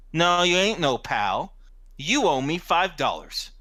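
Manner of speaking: mildly confrontational retort; acted working man with a grudge; puffed-up tough guy. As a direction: square up and demand what's owed. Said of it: "his chest is all puffed up".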